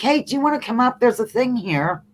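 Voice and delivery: high, eager invitation; coaxing. Real, not acted. Host invites a chat viewer to come up, coaxing. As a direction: pitch it up to coax someone along. Coaxing Kate to join stream.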